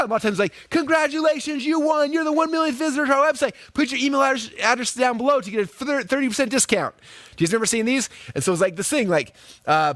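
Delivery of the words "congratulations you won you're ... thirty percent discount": higher, hammed-up salesy announcer voice; mock game-show winner announcement; cheesy pop-up ad. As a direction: play the pushy pop-up ad hyping a prize. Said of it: "This pop-up would come up and be like".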